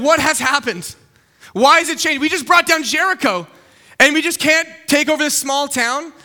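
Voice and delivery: bewildered alarm. Acted. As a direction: demand to know what went wrong. Acted Israelites baffled by defeat.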